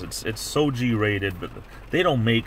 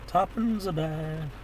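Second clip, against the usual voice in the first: 1 mock Cockney; 7 semitones higher, 5 dB quieter, much slower than usual.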